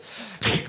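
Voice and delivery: imitated raccoon hiss; raccoon noise. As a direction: make the raccoon's noise at him. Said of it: "goes like this".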